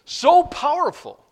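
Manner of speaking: high, loud and laughing; laughing emphasis. Real, not acted. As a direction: laugh it out with delight. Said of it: "laughing emphasis in sermon".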